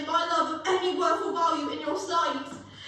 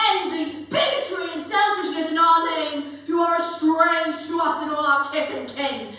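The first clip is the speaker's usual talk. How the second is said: louder, forceful condemnation; stern rebuke; 5 dB louder than usual. Acted. Ghost rebuking Scrooge about false preachers, loud and stern. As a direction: denounce those who misuse our name.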